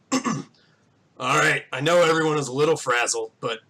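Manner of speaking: lightly gruff voice addressing a crowd; mildly gruff town speech; gruff mayor. Acted. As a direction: speak as a weathered farmer running a meeting. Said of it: "he has, like, a very gruff voice".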